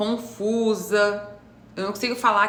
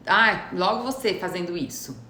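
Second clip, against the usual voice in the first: mild sarcastic disbelief; irônica. Acted. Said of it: "Eu sou irônica". (ironia leve, com desdém)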